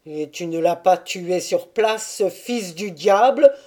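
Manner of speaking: loud angry exclamation; outcry. Acted. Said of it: "s'écria Boulba". (Boulba s'écrie contre le fils du diable, avec colère)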